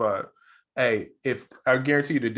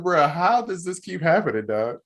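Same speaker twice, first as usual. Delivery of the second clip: slow, higher incredulous question, easing down at the end; amazed disbelief; 5 semitones higher, slower than usual. Retold or imitated. Podcaster reacting to yet another British actor, amazed. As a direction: wonder at it, thoroughly baffled. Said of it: "I'm so amazed".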